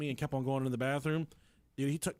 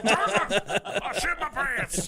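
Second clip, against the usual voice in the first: loud, high, drawn-out mock holler; hammed-up scream; 9 semitones higher, 7 dB louder, slower than usual. Husband's confession to wife reprised, hammed-up high scream. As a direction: belt out the strained callback.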